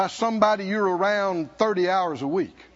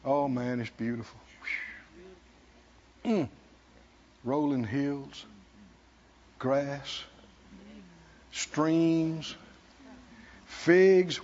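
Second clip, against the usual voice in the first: awed hush; 9 semitones lower, 6 dB quieter, slower than usual. Real, not acted. Describing beautiful land.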